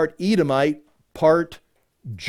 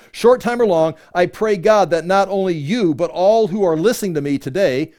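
higher, emphatic declaration; scripture reading; 3 semitones higher, 4 dB louder than usual. Acted. Paul answering Agrippa before everyone listening, emphatic scripture reading. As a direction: proclaim it to the whole room. Reads Paul's answer aloud.

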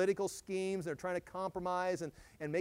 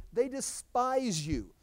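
forceful scripture; 4 semitones higher, 10 dB louder, much slower than usual. Acted.

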